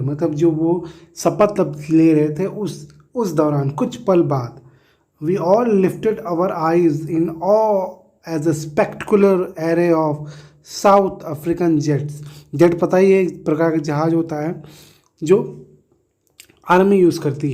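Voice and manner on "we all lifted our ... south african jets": reading the textbook line out word by word, very slowly; slow dictation reading. Acted. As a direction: read it out slowly for students to follow. Teacher reads textbook line aloud. (किताब की पंक्ति बहुत धीरे-धीरे पढ़कर सुनाना)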